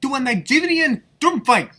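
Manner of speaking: high, hammed-up Nigerian accent challenge; jokey Nigerian accent throwing down a challenge; mock Nigerian accent. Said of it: "we have to do this in accents now".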